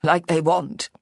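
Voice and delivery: breathy, small and defeated. A narrator's reading. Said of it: "in a small, breathy voice".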